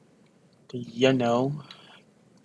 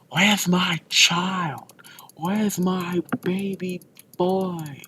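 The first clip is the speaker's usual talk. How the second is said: high, slow mock wail; mock panicked mother; 5 semitones higher, slower than usual. The hag discovers her baby missing, mock panicked wail. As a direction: wail for the child in a raised, stretched voice. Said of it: "she's panicking like".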